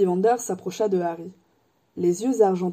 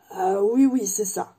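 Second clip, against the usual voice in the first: ill at ease; slower than usual. Acted. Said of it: "répondit Hagrid mal à l'aise".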